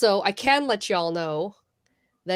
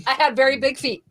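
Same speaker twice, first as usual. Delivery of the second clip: higher-pitched, giggling through the words; laughing; 6 semitones higher than usual. Real, not acted. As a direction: add it while still laughing. Laughing at her own joke.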